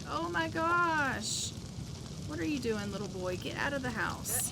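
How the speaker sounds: a lightly voiced worried adult scolding the little boy; shocked onlooker. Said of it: "He's in here looking at it like".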